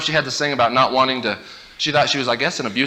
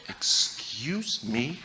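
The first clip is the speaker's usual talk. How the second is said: indignant; 10 dB quieter, much slower than usual. Retold or imitated. Annoyed older brother.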